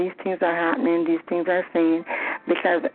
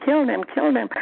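mild devil voice; 6 semitones higher than usual. Retold or imitated. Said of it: "the voice kept on coming".

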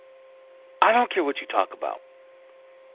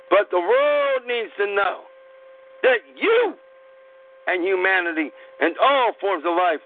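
impassioned plea; 7 semitones higher than usual. Real, not acted.

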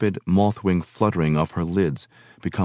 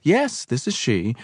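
impatient; 6 semitones higher, slower than usual. A narrator's reading. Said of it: "impatiently into the telephone".

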